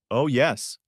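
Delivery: a hint of jolly Santa; lightly voiced Santa, warm and knowing; mild Santa voice. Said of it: "I said in my Santa voice".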